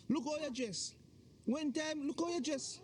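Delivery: acted domestic protest, pitched high. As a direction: complain with the pitch pushed up. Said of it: "Lower your voice".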